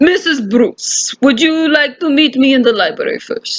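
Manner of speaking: put-on Russian-accented inspector addressing a suspect. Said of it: "attempted Russian accent here".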